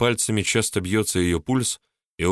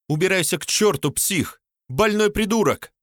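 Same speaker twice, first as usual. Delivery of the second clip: high, choking on tears, pitched up; tearful insults; 11 semitones higher than usual. A narrator's reading. Polina screams at Mark through tears, high-pitched. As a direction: spit the insults through sobs. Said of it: "захлёбываясь слезами".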